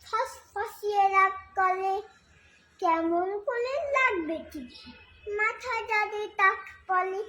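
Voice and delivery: lilting, measured recital of a verse; poem recitation. Acted. Reciter performing Sukumar Ray's poem for listeners, lilting recitation. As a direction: recite line by line, pausing between phrases, questions sung out.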